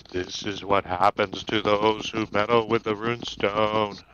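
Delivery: low ghostly echo, a touch spooky; lightly voiced echoing ghost. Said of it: "speaks in an echoing voice".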